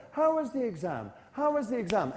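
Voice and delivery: bright friendly question to a mate; nice, friendly. Shown as a demonstration. Teacher modelling a friendly question to the class, nice and friendly. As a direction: ask it kindly, like greeting a friend. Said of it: "In a nice, friendly way".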